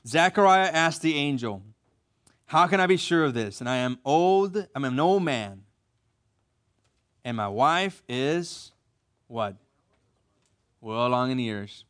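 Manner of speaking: slow, deliberate reread, lingering on the age. Shown as a demonstration. Pastor rereading so the men catch it, slow and pointed. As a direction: take your time and let the pauses show his tact. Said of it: "read it again slower and check out how he says".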